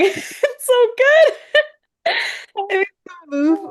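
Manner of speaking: laughing praise. Real, not acted. Listener moved by cartoonist's comic, laughing praise. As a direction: gush through real laughter.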